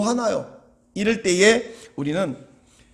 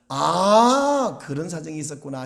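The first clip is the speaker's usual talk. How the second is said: long "아" of realization, then settling lower; understanding realization; 4 semitones lower than usual. Shown as a demonstration. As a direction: model a sudden understanding for listeners to repeat. Models understanding for congregation to repeat.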